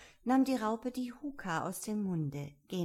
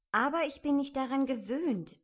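mildly tearful, higher-pitched protest; plaintive, louder girlish complaint; whiny; 7 semitones higher, 6 dB louder than usual. A narrator's reading. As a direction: whine it as poor Alice. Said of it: "in weinerlichem Tone".

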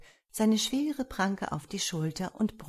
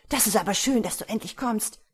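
high-pitched, delighted welcome; joyful; 4 semitones higher, 5 dB louder, faster than usual. A narrator's reading. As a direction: welcome your rescuer gladly. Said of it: "rief er freudig".

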